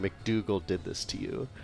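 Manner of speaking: whispering. Leaning down to a drowsy man and speaking in his ear: whisper. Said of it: "I wanna whisper in his ear".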